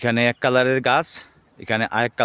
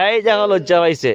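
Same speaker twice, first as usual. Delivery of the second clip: excited showing; 8 semitones higher, 6 dB louder than usual. Real, not acted. Showing touch-me-not plant.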